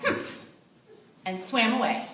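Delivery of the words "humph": indignant humph. A narrator's reading.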